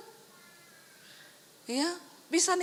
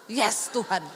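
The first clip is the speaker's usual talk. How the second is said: lower, giggly mock cheer; laughing triumph; 7 semitones lower, slower than usual. Wife imagining escaping the big gift, laughing. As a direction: gloat playfully.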